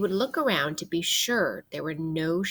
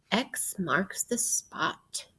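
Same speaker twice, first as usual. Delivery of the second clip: dramatic; 4 dB quieter, much slower than usual. Acted. Pirate catchphrase, slow and soft.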